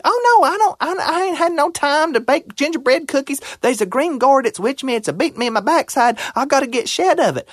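put-on high, urgent old granny voice; granny begging the groundhog for help, high and frantic. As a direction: plead for help in a panic. Granny pleading to fox.

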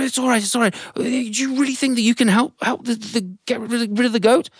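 high, gentle motherly voice; a mother soothing the tiny ant; high kind questioning. Acted.

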